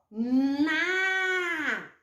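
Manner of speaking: Na held long and clear; syllable demo. Shown as a demonstration. Teacher repeats Na for the children to copy. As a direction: sound out Na slowly and clearly. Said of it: "De novo".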